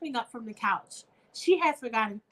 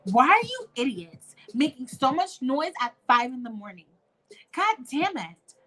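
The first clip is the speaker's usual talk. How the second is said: angry demand; 3 semitones higher, 3 dB louder than usual. Acted. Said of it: "Erica looked very angry".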